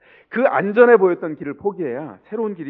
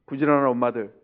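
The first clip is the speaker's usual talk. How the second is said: ordinary talk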